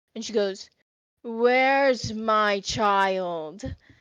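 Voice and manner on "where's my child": deep, loud, echoing motherly calling voice. Describing a voice heard while in the grass, the speaker performs it: deep echoing motherly voice. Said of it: "a deep motherly voice kick in. Um, that kind of echoes".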